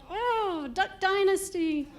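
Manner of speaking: high-pitched redneck reaction. Acted. South Carolina reacting as a redneck, mock awe. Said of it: "South Carolina just kinda sounds redneck".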